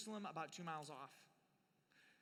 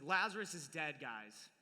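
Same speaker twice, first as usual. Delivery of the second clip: louder blunt exasperation; exasperated Jesus; 4 semitones lower, 4 dB louder, slower than usual. Retold or imitated. Jesus bluntly correcting his slow disciples, exasperated. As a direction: spell it out, fed up. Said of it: "frustrated Jesus".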